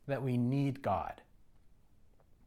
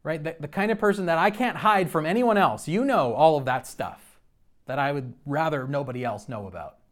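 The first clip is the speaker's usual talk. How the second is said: protesting prayer; 4 dB louder than usual. Retold or imitated. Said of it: "I was kind of saying".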